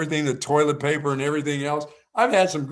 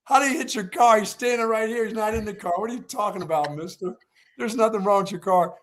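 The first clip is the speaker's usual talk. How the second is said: higher, exasperated mock scolding; imitating the lady; 6 semitones higher than usual. The lady scolding the Jersey man in the garage, higher and incredulous. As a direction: play her as incredulous and fed up. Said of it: "The lady goes".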